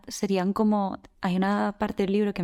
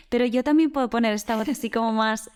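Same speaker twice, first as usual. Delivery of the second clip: put-on childlike voice; 4 semitones higher than usual. Shown as a demonstration. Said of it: "la voz de Mireia más aniñada".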